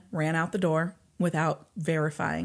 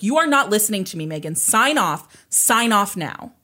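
raised, fast angry scolding; mom losing it; 4 semitones higher, 5 dB louder than usual. Retold or imitated. Mother yelling at Megan over the phone, angry. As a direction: snap at the daughter to sign off, louder. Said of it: "Tina loses it".

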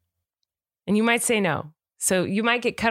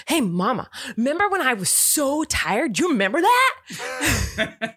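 put-on higher, excited little kid voice; a mother voicing her hyper little boy; imitating little son; 5 semitones higher, slower than usual. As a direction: bounce it like an eager toddler. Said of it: "He's like".

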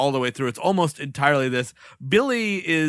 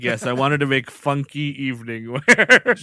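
imitating a woman's eager answer; 3 semitones lower than usual. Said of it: "And she's like".

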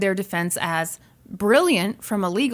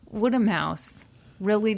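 laughing through it. Real, not acted.

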